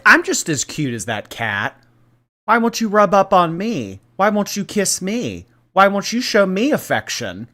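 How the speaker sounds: high pleading whine, voicing a pet; voicing the jealous cat. Jealous cat begging its owner for affection, high whiny voice.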